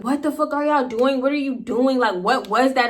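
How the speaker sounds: mildly heated, incredulous demand; indignant confrontation. Retold or imitated. Storyteller replays confronting the dudes who messed with her, indignant.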